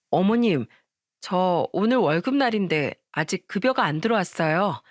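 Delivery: mildly puzzled, polite query. Acted. Daughter-in-law asks mother-in-law about unpaid wages, puzzled. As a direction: raise it tentatively, a touch bewildered. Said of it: "시모한테 의아한 목소리로 물었습니다".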